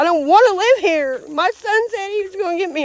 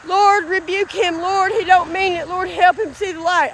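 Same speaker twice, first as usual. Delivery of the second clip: re-enacted prayer, mildly raised pitch; earnestly petition the Lord, phrase by phrase; fervent prayer; 3 semitones higher than usual. Woman retelling how she prayed for him, earnest pleading. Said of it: "I kept on praying to God with all I had".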